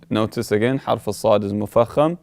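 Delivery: ordinary delivery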